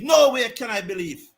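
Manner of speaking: disbelieving outburst; heated rant about the umpire; angry rant. Real, not acted. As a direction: let the frustration burst out. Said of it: "my apology for that rant".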